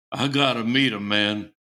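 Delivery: lightly imitated deep voice; a hint of a low-voiced bandmate; deep-voiced guitarist. Guitar player begging to meet Paul, deep voice. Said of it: "had a real deep voice".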